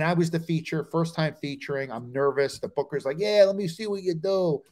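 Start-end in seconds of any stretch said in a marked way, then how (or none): 3.2-4.6 lightly voiced club booker; booker impression. Comic imitating the booker to the host, lightly put-on accent. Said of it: "Same accent".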